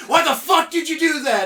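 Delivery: high, loud outraged yell; imagined friend yelling over a dream shooting; mock angry shout. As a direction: yell it like a hammed-up outburst. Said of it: "you would have been like".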